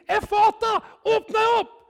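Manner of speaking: loud, high commanding call; shouted command. Retold or imitated. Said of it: "og så ropte vi". (ropt høyt og befalende)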